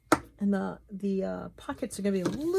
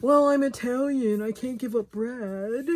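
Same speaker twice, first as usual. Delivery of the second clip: mock Italian mother-in-law, high and loud, then slowing; imitating mother-in-law; 5 semitones higher, 6 dB louder than usual. Quoting her Italian mother-in-law's excuse, mock indignant. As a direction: ham up her stubborn excuse. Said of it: "my Italian mother-in-law always said".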